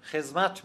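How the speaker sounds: خدمت pronounced with z for d; regional z form. Shown as a demonstration. Linguist quotes today's regional speakers, خدمت said with z. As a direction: say خدمت as "khez-mat". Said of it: "الان در بسیاری از مناطق".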